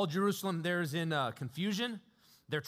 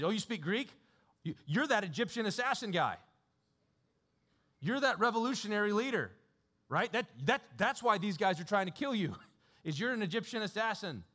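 higher, eager mock realization; surprised tribune; 5 semitones higher than usual. Tribune mistaking Paul for the assassin, mock surprise. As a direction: jump to the wrong conclusion, brightly. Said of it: "He says".

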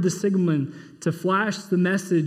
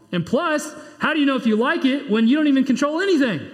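a mild God voice, raised and firm; 6 semitones higher than usual. Acted. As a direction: speak as God, gently correcting. Pastor voices God answering.

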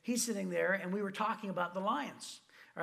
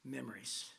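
coaxing best friend; 6 semitones lower than usual. Retold or imitated. Friend tempting Chris at college, low hushed coaxing. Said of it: "He goes".

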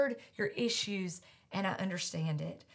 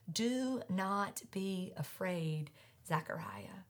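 gentle hush; 2 semitones lower, 8 dB quieter, slower than usual. Acted. Angel's comfort, softly spoken.

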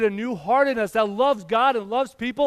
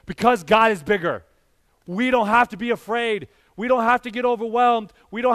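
louder, bolder take of the bedtime line; preached proclamation; 4 semitones higher, 6 dB louder than usual. Acted. Pastor proclaiming to the congregation that they need not fear, loud and bold. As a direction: declare it to the whole church.

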